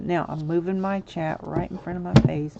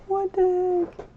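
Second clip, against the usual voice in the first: high, loud, slow disbelief; slow, high, loud outrage; what the heck; 14 semitones higher, 8 dB louder than usual. Real, not acted. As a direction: drag out the disbelief. Disbelief at resized fountain.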